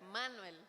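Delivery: Manuel with the stress landing on the A. Shown as a demonstration. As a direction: lean on the A in Manuel, man-WEL. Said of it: "con tilde en la A".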